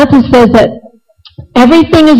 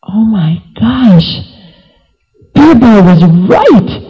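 slow, stunned realization; slower than usual. Acted. King realizing his minister was right, slow and stunned. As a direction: let it dawn slowly, with pauses. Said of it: "Akbar was stunned".

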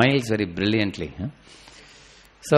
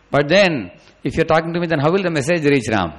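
anguished dilemma; 7 semitones higher, 8 dB louder than usual. Acted. Sita torn between two wishes.

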